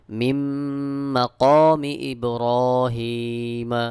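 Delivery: "মিম মাকামি" chanted with a long hummed m; idgham with ghunna. Shown as a demonstration. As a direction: merge into the m of "মাকামি" and hold it nasally, slowly. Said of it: "অবশ্যই ইদগাম গুন্নাহ করতে হবে".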